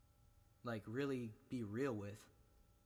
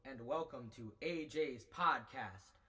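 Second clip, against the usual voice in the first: reverb; 3 dB louder, slower than usual. Shown as a demonstration. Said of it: "with the reverb".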